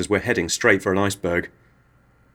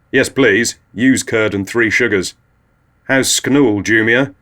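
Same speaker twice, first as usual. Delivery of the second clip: voiced Tony; 3 semitones higher, 5 dB louder, slower than usual.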